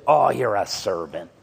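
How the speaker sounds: low admiring churchgoer, lightly imitated. Churchgoer praising a helpful pastor, mock admiration. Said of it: "the people say to you".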